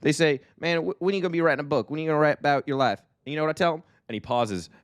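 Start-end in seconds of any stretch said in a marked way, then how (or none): 0.0-3.0 hammed-up East Texas storyteller; East Texas accent. Impersonating Eric to cohost in East Texas accent. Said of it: "That's my East Texas accent". 3.2-3.8 hammed-up East Texas storyteller; East Texas accent. Impersonating Eric to cohost in East Texas accent. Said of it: "That's my East Texas accent".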